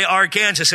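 "Arkansas" said ar-KANZ-us; wrong state pronunciation. Shown as a demonstration. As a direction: say "Arkansas" like "our Kansas". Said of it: "violation of state law to say".

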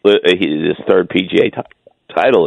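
talking through hiccups; words broken by hiccups. Real, not acted. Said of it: "I'm hiccuping this morning".

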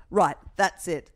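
loud, slow, stern mock outrage; mock outraged demand. Golf fan demanding a trial, loud and slow mock outrage. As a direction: hams up a golfer's pompous demand for a trial. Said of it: "There was some guy who was like".

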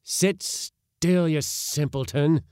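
high, loud scolding; cried rebuke. A narrator's reading. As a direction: snap at a fool to stay put. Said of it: "cried my uncle again".

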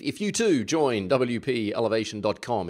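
playful mock announcer plug; radio announcer's voice. Host plugging the website to listeners, mock radio announcer. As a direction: lightly put on a radio announcer. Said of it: "in my best radio announcer's voice".

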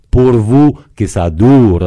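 a hint of a Corsican mother's Italian accent. Historian quoting Napoleon's mother on the coronation in an Italian accent. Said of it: "elle parlait français avec un gros accent italien".

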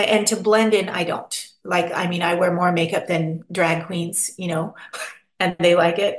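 normal talking voice

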